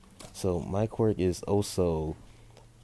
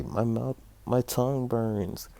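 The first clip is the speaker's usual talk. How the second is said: put-on higher-pitched child's complaint; mock tearful; 5 semitones higher than usual. Izuku to his mom with a burnt tongue, mock tearful. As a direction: act a whimpering boy, drawn out at the end. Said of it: "as he starts crying".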